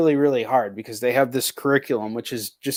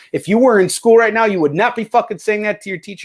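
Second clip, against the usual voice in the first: retold fed-up parent, higher and sharper; scolding; 5 semitones higher than usual. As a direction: lay down the law to the kid, half-mock. Parent scolding son over homeschool.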